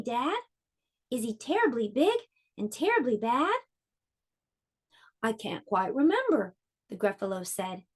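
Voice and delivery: gentle storybook reading aloud; reading to children. A narrator's reading. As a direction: read it like story time for little kids. Reads picture book to children.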